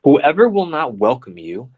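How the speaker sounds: deliberate, phrase-by-phrase proclamation; scripture reading. Acted. Reading out instructions to disciples, solemn scripture reading. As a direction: proclaim each instruction with weight.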